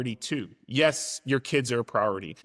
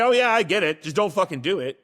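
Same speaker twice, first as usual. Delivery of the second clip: higher, louder sarcastic brush-off; mock dismissive parent; 5 semitones higher, 5 dB louder than usual. Parent brushing off a kid, mock sarcastic and higher. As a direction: toss it off like a careless parent. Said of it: "You wouldn't say".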